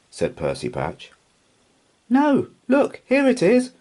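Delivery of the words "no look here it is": high, loud excited cry of discovery. A narrator's reading. Peg Polkadot calling to the pirates, excited high cry. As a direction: cry out, thrilled to find it. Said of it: "cried Peg Polkadot".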